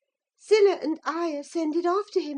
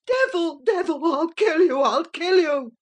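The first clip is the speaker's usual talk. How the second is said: louder, raging scream at the door; frantic shriek; 4 dB louder than usual. Acted. Linton screams at Earnshaw, powerless and furious. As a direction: beat the words against the door. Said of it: "he rather shrieked than said".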